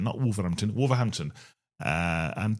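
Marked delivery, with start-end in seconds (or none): 0.2-0.7 Wolverhampton in Black Country accent, H dropped. Shown as a demonstration. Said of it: "saying it in a Black Country accent". 0.7-1.3 Wolverhampton with a clearly sounded H; non-local pronunciation. Shown as a demonstration. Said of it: "without saying it in a Black Country accent".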